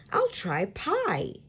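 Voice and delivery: bright slow exclaim. Acted. Peyton to her mom, a slow bright exclaim. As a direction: announce it like a brave decision. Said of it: "Peyton exclaims".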